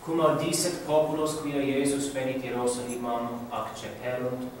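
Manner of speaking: Latin read with every s drawn out; drawn-out s like a snake. Shown as a demonstration. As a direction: hiss the s sounds in "Iesus". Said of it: "Notice the way they draw the S's".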